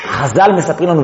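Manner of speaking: ordinary talk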